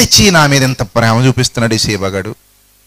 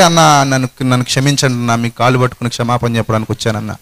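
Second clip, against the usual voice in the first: mock tearful plea; 3 semitones lower than usual. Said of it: "అని వేదిక మీద పట్టుకుని ఏడుస్తుంటే".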